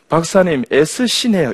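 high-pitched mimicry of a patient; imitated unamused patient. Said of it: "어떤 사람 이렇게 이야기합니다". (높은 목소리의 환자 흉내)

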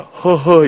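high, loud "heo-heo"; imitated awkward chuckle. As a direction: mimic an embarrassed husband's exclamation. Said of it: "그러면 이분이 이럽니다". (멋쩍은 "허허" 흉내)

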